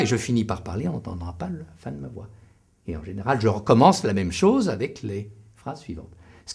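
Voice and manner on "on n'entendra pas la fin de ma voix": rushed, voice dropping away to nothing; fading sentence end. Shown as a demonstration. Speaker demonstrating a weak, swallowed sentence ending. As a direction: let the end of the sentence die out. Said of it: "Je vais prendre un exemple".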